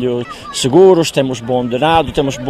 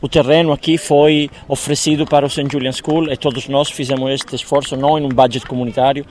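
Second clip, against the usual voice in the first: Italian accent. Real, not acted. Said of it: "O português com sotaque italiano".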